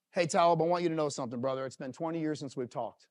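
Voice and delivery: put-on low, gentle voice to an old friend; tender, low message to a friend; heartfelt gratitude. Acts out a heartfelt gratitude text.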